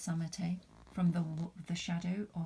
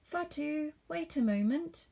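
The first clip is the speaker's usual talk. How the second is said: high call, pushing louder; 9 semitones higher, 4 dB louder than usual. Acted. Mister Toure calls Fatu from his bicycle shop, high call. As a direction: hold her up for a moment.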